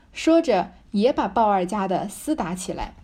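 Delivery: slow, measured reading of the novel text; deliberate classical narration; reading the classic aloud. A narrator's reading. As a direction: read it like an old storyteller, taking your time. Reads the original novel text.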